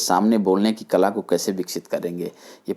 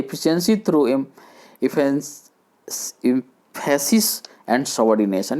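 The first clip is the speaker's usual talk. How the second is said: slow heading; much slower than usual. Shown as a demonstration. Reads point title slowly.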